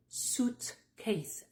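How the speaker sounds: "suitcase" said "soot-case", in two separated parts; OO sound, silent I. Shown as a demonstration. Teacher breaks down suitcase for learners, silent I. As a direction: say suit with OO and no I. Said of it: "tu vas juste prononcer ou".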